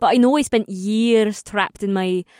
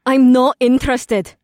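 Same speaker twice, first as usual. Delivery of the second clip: flat; 2 semitones higher, 6 dB louder than usual. Acted. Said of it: "she said flatly".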